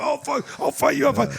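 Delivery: put-on high, slurred drunk threat; drunk yelling. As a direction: mimic a drunk picking a fight. Imitating drunk guy yelling.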